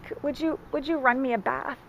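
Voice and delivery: small pleading question; tentative request. Retold or imitated. Acts out her tentative request.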